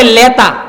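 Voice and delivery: "লেতা" with l for n; পাবনার টানে "লেতা"; Pabna dialect n as l. Shown as a demonstration. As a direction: say "লেতা", n turned to l. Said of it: "ন কে ল উচ্চারণ করে".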